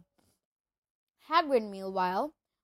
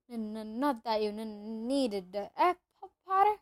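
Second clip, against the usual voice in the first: nervous stammer. Acted.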